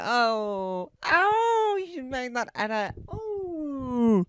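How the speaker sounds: high, hammed-up tearful wail; mock sobbing. Michael tearfully reacting to the edit, hammed-up wail. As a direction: cry it out in mock grief. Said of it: "And he'd be like".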